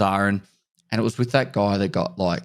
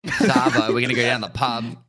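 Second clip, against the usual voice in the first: mock Aussie; 4 semitones higher than usual. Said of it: "spitting out the Aussie lingo".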